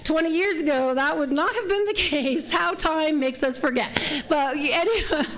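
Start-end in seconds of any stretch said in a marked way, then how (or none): 0.0-3.9 wry aside. Retold or imitated. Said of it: "And I was like".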